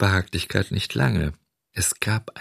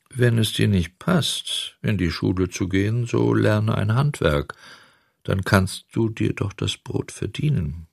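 serious tone; 2 semitones higher than usual. Acted. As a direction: advise him gravely. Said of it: "fuhr in ernstem Tone fort".

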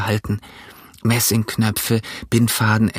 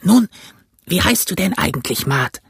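put-on old castaway; 8 semitones higher than usual. A narrator's reading. Castaway telling Jim he was marooned, rough voice.

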